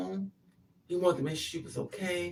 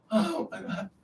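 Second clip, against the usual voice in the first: higher-pitched mock dismay; retold shocked outcry; 5 semitones higher than usual. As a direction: imitate a stunned girl.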